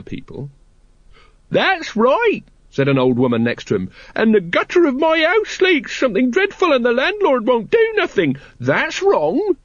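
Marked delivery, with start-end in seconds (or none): 1.5-2.4 put-on very high cracked old woman. 4.1-9.6 put-on very high cracked old woman.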